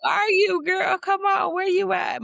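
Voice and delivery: high, loud, slow calling. Pretend. Calling out to her lost inner self, high and loud. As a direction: shout for someone lost, drawn out.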